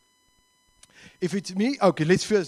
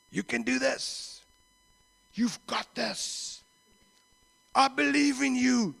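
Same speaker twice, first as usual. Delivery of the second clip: encouraging; 6 semitones higher, slower than usual. Acted. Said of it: "it is encouraging".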